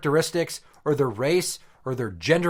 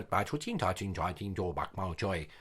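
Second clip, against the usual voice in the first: low, softer mock-Asian babble; mock-Asian gibberish; 8 semitones lower, 11 dB quieter than usual. Dad shows daughter foreign-sounding speech, mock-Asian gibberish. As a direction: rattle off fake Asian-sounding syllables under your voice. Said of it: "Asian gibberish".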